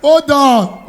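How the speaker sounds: ordinary talk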